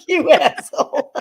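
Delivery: high-pitched insult through laughter; retold comeback, cracking up; laughing retort. Laughing retort to son's joke.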